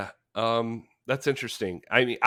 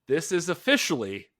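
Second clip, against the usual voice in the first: dramatic shout; 6 semitones higher, 7 dB louder, slower than usual. Acted. Reading a scathing review aloud.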